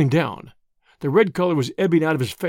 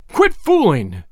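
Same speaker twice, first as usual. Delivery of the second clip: loud, impatient order; angry outburst; 6 dB louder, much slower than usual. Acted. Whittington bringing his fist down, angry outburst. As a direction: burst out with the command. Man bangs fist on desk.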